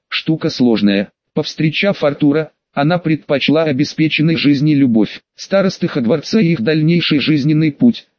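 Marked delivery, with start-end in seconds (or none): 5.3-8.1 lisping. Acted. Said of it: "шепелявым голосом".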